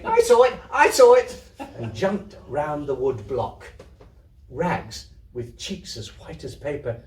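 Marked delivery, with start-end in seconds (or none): 0.0-1.4 higher, loud thrilled shout; boy shouting as he jumps about; excited shout. Acted. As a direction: yell it out in wild excitement.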